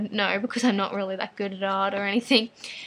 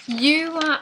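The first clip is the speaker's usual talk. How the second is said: slow, drawn-out, louder, higher delight; thrilled; 5 semitones higher, 5 dB louder, slower than usual. Real, not acted. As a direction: savour the wonder of the gift. Opening a gift package.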